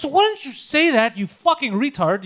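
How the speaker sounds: exasperated retort, starting high; mildly acted phone outburst; retold angry yell. Retelling his snap at the delivery guy, mock angry yell. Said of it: "get me to yell on the fucking phone".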